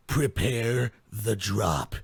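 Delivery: slow, deep mock command; mock ominous. Host to cohost, mock ominous slow command. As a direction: intone it like a dramatic threat.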